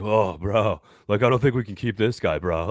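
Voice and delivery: lightly voiced meathead coach; a hint of meathead bro voice; half-hearted impression of a dopey coach; Dan Campbell. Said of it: "Can you do the Dan Campbell voice".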